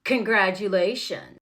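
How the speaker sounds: low, slow, grudging congratulations; passive-aggressive. Retold or imitated. Boyfriend repeating himself as he walks away, passive-aggressive. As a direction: stretch it out low, meaning none of it. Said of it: "The passive aggressive".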